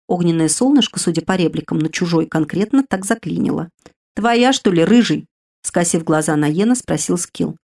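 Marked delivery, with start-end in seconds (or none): 4.1-5.3 teasing spirit. Acted. Spirit teases the redhead.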